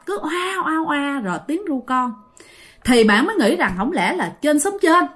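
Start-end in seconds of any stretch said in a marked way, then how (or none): 0.2-1.2 softly voiced "oa" cries in imitation; imitated baby crying. Storyteller mimics a baby crying in the night, imitated wail. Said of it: "tiếng khóc mà rõ dữ lắm".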